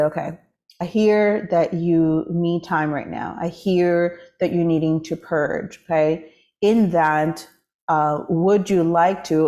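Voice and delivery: slow, tender, reassuring inner voice; gentle self-talk. Retold or imitated. The speaker retelling how she comforted herself, slow and tender. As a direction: speak kindly to yourself, taking your time. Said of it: "pivoted a little bit ... the energy behind it".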